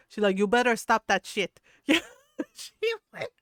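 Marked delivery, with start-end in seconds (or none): 0.4-1.6 loud, mock-stern warning; scolding mom. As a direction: imitate mom laying down the law, loudly. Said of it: "my mom would, like, tell".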